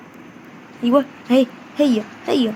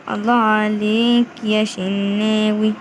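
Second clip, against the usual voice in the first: slow praise; much slower than usual. Real, not acted. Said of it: "repeated praise".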